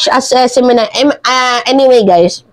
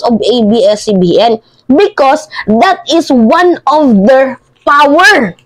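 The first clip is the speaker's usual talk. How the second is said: mocking Harry Roque quote; 3 semitones higher than usual. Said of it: "Sabi niya".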